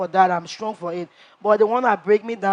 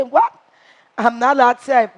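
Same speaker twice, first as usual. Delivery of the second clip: louder, higher shocked retort; indignant surprise; 4 semitones higher, 7 dB louder than usual. Retold or imitated. Housemate retelling her shocked reply to Gary, loud. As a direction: recoil at the accusation. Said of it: "I, I say".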